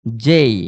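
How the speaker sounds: "জেই" as jay with a glide; corrected letter J. Shown as a demonstration. Teacher repeating the answer for students, "জেই" with a gliding ending. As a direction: let "জেই" slide from e into i. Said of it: "কি হবে?".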